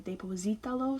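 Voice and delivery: deposítalo with the stress on SI, de-po-SI-ta-lo. Shown as a demonstration. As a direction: keep the weight on SI in deposítalo. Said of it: "to keep that same stress".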